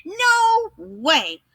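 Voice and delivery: three pigs shouting back at the wolf; pigs crying out. Acted. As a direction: squeal the refusal high. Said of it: "cried the three little pigs".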